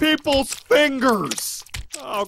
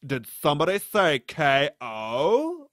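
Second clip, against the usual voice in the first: lower, softer gruff boxer voice; boxer announcer; 8 semitones lower, 7 dB quieter than usual. Acted. Boxer pops in at the punchline, lower and softer. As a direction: say it like a boxer hearing his cue.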